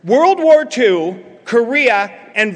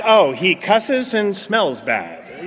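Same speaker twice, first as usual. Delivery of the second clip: snooty mockery; 5 semitones lower, 4 dB quieter, much slower than usual. Mocking snobby sober drunks.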